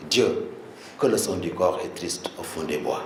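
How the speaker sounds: quiet, mournful reading of the verse; sad recited line. Retold or imitated. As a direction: let the line sink low and sorrowful. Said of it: "ce vers de tristesse". (vers récité avec tristesse)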